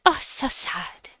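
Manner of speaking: slow, hammed-up sad sigh; dramatic sadness. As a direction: overplay the disappointment, slowly. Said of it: "Sorry, being dramatic".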